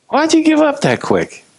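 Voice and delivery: very high-pitched, baffled question; incredulous. Acted. Jesus to disciples who gave up, high incredulity. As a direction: squeak it out in exaggerated disbelief.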